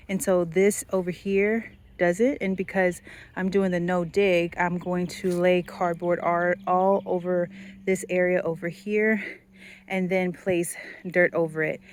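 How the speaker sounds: panting, out of breath from digging. Real, not acted. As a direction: talk while catching your breath. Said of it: "Sorry, I'm out of breath".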